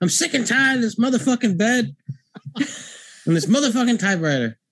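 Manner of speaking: very high, ranting, cursing outburst. Recasting the film with Samuel L. Jackson in the role: Samuel L. Jackson voice. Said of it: "Sam Jackson".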